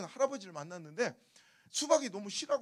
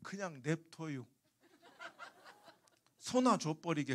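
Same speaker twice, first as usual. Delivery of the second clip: put-on low, slow old man's brush-off; deadpan refusal in Chungcheong dialect; dismissive Chungcheong grandpa; 5 semitones lower, slower than usual. Melon seller abruptly ending the haggling, slow and dismissive. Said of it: "갑자기 할아버지가 대뜸".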